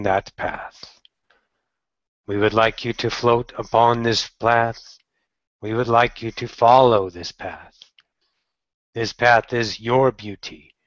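slow, measured meditation voice; short phrases with spacious pauses, sinking at the ends; guided meditation. Acted. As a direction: guide the listener calmly inward.

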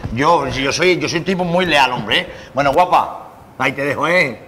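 put-on Galician accent, pleased with the deal; closing the deal in a Galician accent; Galician Spanish accent. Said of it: "hablando con el acento gallego ridículo ese". (acento gallego satisfecho)

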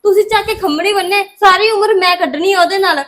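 loud, indignant refusal; defiant daughter refusing the match; angry protest. Acted. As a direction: push back hard at her mother.

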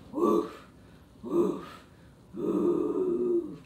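short playful woofs; puppy bark. Pretend. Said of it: "Let me hear your bark".

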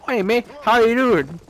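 high mock Aussie greeting; Australian accent. Mimicking the Aussie wannabe from the video, mock Australian accent. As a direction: put on a loud-ish, high-pitched Aussie wannabe. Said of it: "Australian accent".

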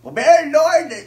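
gummy toothless speech; talking without dentures. Acted. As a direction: say it with no teeth in. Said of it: "I can't understand myself".

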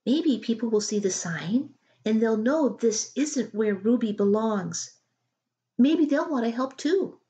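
a hint of a keen daughter planning; eager girl. Julia hopeful pleading.

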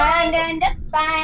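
helium voice. Real, not acted. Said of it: "I'm glad I'm on helium".

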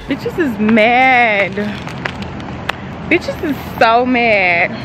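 drawn-out teasing gloat; slow mocking sing-song taunt at jealous girls. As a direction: gloat slowly at the haters. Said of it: "Girl, nobody's mad you got flowers".

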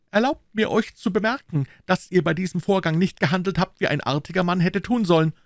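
very high, formal reproach; Aramis. A narrator's reading. Musketeer rebuking the Gascon, high and formal.

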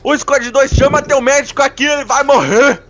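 urgent call for a medic; man down shout. Real, not acted. Calling for a medic while dying.

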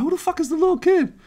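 mock disbelief. Retelling own disbelief.

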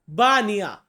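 বানিয়া with no k at the end, ba-ni-ya; teacher gives the Malay for many, বানিয়া said with no final k; Malay word said clearly. Shown as a demonstration. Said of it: "এটাকে মালয়েশিয়াতে বলা হয়".

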